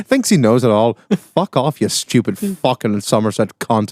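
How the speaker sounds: put-on Northern Irish accent, swearing; swearing tirade. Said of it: "Fucking accents are spot on".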